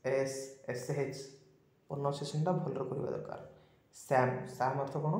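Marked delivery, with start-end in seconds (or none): 0.0-1.2 slow, careful ଏସ୍ then ଏସ୍ ଏଚ୍, each sound set apart; teacher spelling out two sounds slowly; sound contrast drill. Shown as a demonstration. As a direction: draw out ଏସ୍ and ଏସ୍ ଏଚ୍ slowly so the hiss and the hush differ. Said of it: "ଆମେ ସାଉଣ୍ଡକୁ change କରିବା ଦରକାର".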